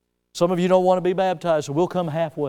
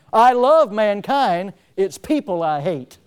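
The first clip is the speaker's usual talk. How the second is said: quoting Linus; 4 dB louder, slower than usual. Retold or imitated. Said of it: "to quote the words of a famous philosopher, Linus".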